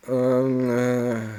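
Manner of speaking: quiet imitated groan; soft sleep moan. Imitating his sleeping friend on the floor, soft moan. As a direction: moan faintly as if deep asleep. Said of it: "these are way too long moans".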